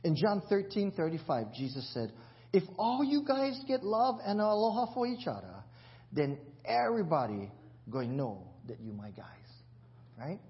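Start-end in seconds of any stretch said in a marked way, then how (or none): 2.5-9.2 scripture quoted in Hawaiian Pidgin. Acted. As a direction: preach the verse in local Hawaiian Pidgin. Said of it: "written in the Pidgin Bible".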